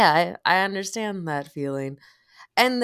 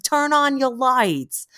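higher, louder, slow mock yell; 11 semitones higher, 5 dB louder, slower than usual. Voicing the driver, slow mock yell. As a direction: shout the order like a driver.

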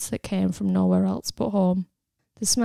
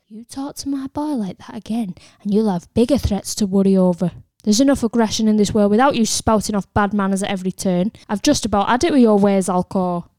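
loud, fast furious scolding; angry mother; 7 dB louder than usual. Acted. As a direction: tear into him to protect her son.

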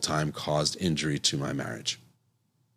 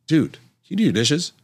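wife asking; 7 semitones higher than usual. Retold or imitated. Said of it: "she would again say".

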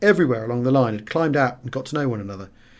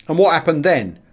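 facetious; 4 semitones higher, 6 dB louder than usual. A narrator's reading. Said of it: "asked Sergeant Johns with a facetious grin".

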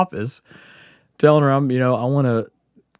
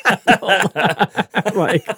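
words pushed out through real laughter, higher and louder; laughing; 12 semitones higher, 5 dB louder, slower than usual. Real, not acted. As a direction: laugh your way through the confession. Laughs while confessing.

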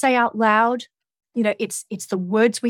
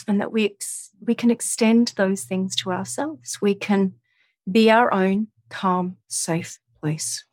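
guided meditation. Acted. Guides self-kindness, eyes closed.

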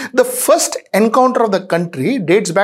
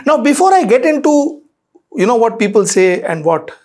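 ordinary talk

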